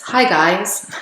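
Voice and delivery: bright rising hi guys; YouTube greeting. Shown as a demonstration. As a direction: greet viewers like a vlogger. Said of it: "if I'm doing a YouTube video".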